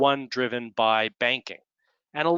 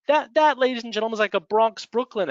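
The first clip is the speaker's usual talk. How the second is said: emphatic aside; 9 semitones higher, 3 dB louder than usual. Real, not acted. Mock-grand aside on accents.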